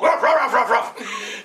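lively dog barks; playful dog barks; dog barking. Acted. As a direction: bark out like a sniffing dog. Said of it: "a dog".

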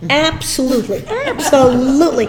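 laughing as she answers; chuckling yes. Real, not acted. Laughing reply.

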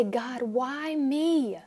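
a touch of whining complaint; plaintive complaint to God. Retold or imitated. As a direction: lament like a hurt child asking why. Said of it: "We say".

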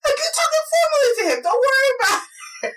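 put-on high, fast old-man command; retold grandfather, high and pushy; insistent grandfather. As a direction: rattle off the grandfather's orders up high. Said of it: "he goes".

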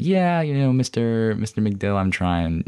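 high-starting "yeah" that slides down; half-hearted excuse. Retold or imitated. Student placating his counselor about attendance, half-hearted. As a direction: make a reluctant excuse, sliding down in pitch. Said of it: "not particularly, like, up for this".

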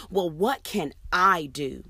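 exhausted, exasperated what can I do; exasperated plea. Shown as a demonstration. Teacher showing the wrong way, exasperated and exhausted. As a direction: sigh it out like you've given up. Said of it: "an exasperated and exhausted kind of plea".

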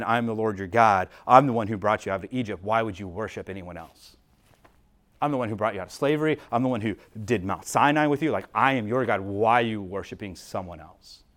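soft, low, pleading divine voice; gentle, hurt God. Shown as a demonstration. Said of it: "it would be just as easy to say".

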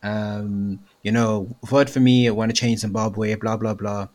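lightly put-on posh cheese boy twang; a hint of privileged cheese boy accent. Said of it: "cheese boy, cheese boy".

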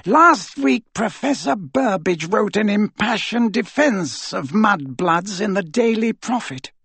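high, slow, scornful fury; contemptuous anger. Acted. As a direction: spit it out with contempt. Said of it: "the anger and contempt in Voldemort's voice".

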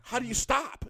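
high, loud mock alarm; dumbfounded question. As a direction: imitate a roommate utterly baffled. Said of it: "he was dumbfounded".

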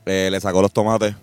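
mock sportscaster calling the action; play-by-play narration. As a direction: narrate his bite like a live match. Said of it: "yo narro tu, tu travesía".

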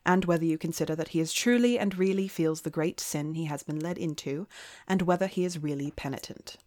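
put-on a faint British accent, barely shifted from her own voice; light British accent. Reading a Victorian lady's letter to her co-host, lightly British-accented. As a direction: read the old letter with a hint of British accent. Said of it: "I'm gonna read it in a British accent because she's British".

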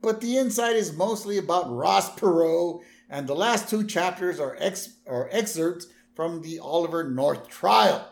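hint of a clever little girl; Lisa voice. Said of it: "Lisa's like".

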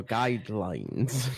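slow, drawn-out pirate Guidelines; Barbosa accent demo. Shown as a demonstration. Friend demoing the pirate captain accent, slow and drawn out. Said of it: "You go".

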